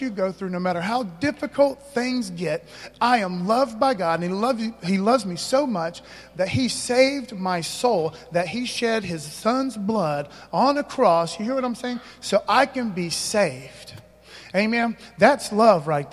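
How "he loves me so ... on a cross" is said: slow, weighty preaching; slow earnest pulpit delivery; slow emphatic preaching. Acted. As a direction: lay each word down slowly.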